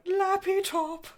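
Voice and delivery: cartoonish squeal of delight; silly high voice. Quoting own brain on finding laptop, silly squeak. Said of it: "my brain went".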